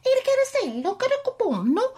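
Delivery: mock Italian gibberish; hammy pretend Italian accent; fake Italian. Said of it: "Now we can speak Italian".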